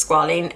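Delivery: squalene said SKWAH-leen; preferred pronunciation. Shown as a demonstration. Vlogger settling on the likelier pronunciation, squalene as SKWAH-leen. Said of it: "I don't know how you pronounce it".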